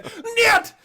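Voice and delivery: high, loud Russian "Niet!"; hammed-up Russian refusal; Russian spy. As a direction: bark it like a cartoon Russian spy. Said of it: "a Russian spy".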